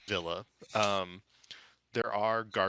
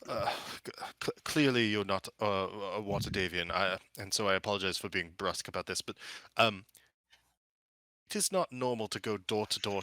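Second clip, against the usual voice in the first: affronted butler. Acted. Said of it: "who looks affronted, says".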